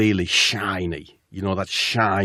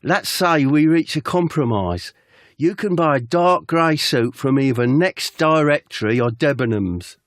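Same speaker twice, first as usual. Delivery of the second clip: lightly put-on Cockney manager, pitched up; raised Cockney impression; 5 semitones higher than usual. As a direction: offer a deal in a Cockney accent. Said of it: "what's Cockney sound like?".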